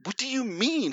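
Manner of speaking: high-pitched puzzled question; mock bafflement. Son questioning dad's road complaint, acted bafflement. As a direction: ask it as an utterly lost son.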